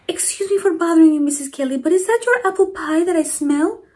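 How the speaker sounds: lightly voiced grandmotherly neighbor asking; Mama Provi voice. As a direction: voice the kind old lady asking politely. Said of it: "Mama Provi asked".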